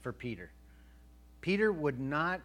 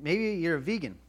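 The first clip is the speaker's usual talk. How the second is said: louder restart; 4 semitones higher, 7 dB louder than usual. Shown as a demonstration. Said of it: "but just kidding".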